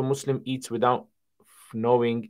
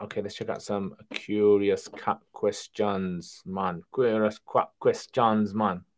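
put-on slow laid-back Jamaican accent; slower than usual. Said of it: "Got my Jamaican accent today".

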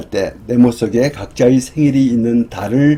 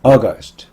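"August" with strong AU, light end; stress on first syllable; 3 dB louder than usual. Shown as a demonstration. Teacher modelling August for repetition, front stress. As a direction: hit the start of "August". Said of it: "맨 앞에 강세가 있습니다".

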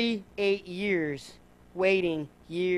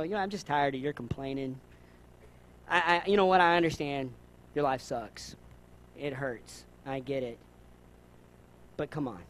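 mock exasperated friend; 7 semitones lower, 5 dB quieter than usual.

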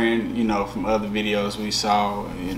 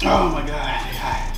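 whisper. Real, not acted. Burning from hot wing.

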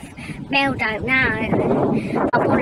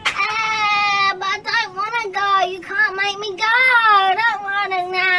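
mock sulky refusal; 8 semitones higher, 5 dB louder than usual.

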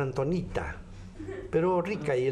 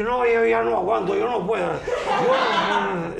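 exhausted plea; 5 semitones higher, 5 dB louder than usual. Acted. Exhausted husband voiced.

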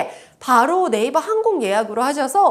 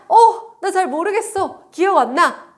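confused customer voice; 5 semitones higher, 4 dB louder than usual. Pretend. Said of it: "하시면 어떻게 하라고요".

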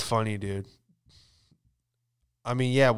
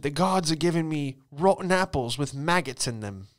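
whiny prisoner; 4 semitones higher than usual. Retold or imitated. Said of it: "she said".

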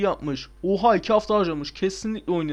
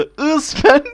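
"I spent" in a higher put-on voice; jokey higher "I spent"; mock English reading; 10 semitones higher, 9 dB louder than usual. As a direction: read "I spent" as a silly mock creator. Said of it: "Bakın görüyorsunuz şurada".

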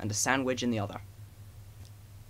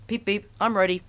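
high, loud cheerful beep beep; eager little engine; 7 semitones higher, 5 dB louder than usual. A narrator's reading. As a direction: call out ready like a keen little engine. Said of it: "said Edward".

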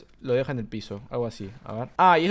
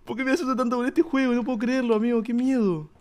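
high, loud, rattled fast talk; shaken and scared; 7 semitones higher, 6 dB louder than usual. Real, not acted. Player recovering from a scare, high and shaken. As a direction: still shaking after the scare. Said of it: "estoy re asustado".

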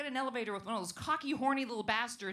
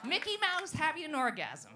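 impression voice; 4 semitones higher than usual. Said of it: "my second one is".

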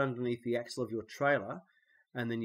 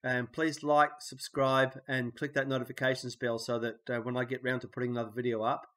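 blocked nose, nasal from a cold. Real, not acted. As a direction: talk through a stuffy nose. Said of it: "hopefully my nasally voice will have".

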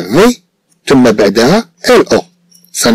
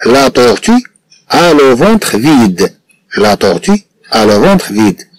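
slow model reading; 2 semitones higher, much slower than usual. Shown as a demonstration. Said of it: "نأخذ مثلًا العبارة".

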